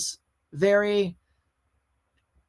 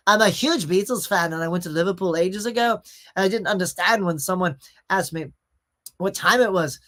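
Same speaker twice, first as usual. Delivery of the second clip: off-the-cuff Liverpool Scouse; attempted Scouse accent. Shown as a demonstration. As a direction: read it in a light Scouse accent. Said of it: "Scouse is not the easiest accent".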